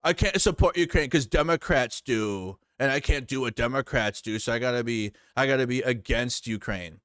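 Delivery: mocking MAGA voter. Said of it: "were like".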